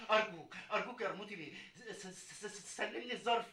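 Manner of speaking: pleading, stammering. Acted. Frightened courier begging Qarmouti for the envelope. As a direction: stammer out the plea in fear.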